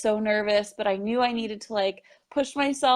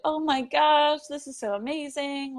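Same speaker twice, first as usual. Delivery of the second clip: higher, thrilled gush; a bright, delighted retelling of her reaction; gushing excitement; 6 semitones higher than usual. Retold or imitated. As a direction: imitate her overjoyed reply. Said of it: "She was like".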